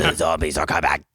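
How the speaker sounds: deep, low undead groan; low zombie voice. Acted. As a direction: growl it like the walking dead. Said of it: "Your zombie sounds are, uh, on point".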